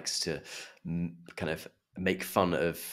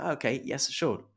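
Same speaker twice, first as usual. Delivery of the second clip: higher-pitched, keen imitation of wife; eager acceptance; 6 semitones higher than usual. Wife accepting a polite invitation literally, eager. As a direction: jump at the invitation innocently.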